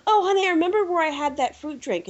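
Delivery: sweet wife voice. Retold or imitated. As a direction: coo it like a doting wife. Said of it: "she goes".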